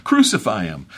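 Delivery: acted outcry, punched out twice; crying out. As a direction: call it out like a demanding crowd. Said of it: "they cried out".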